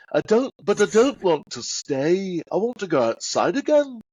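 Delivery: hammed-up Liverpool accent; Liverpudlian impression. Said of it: "that's a Liverpudlian".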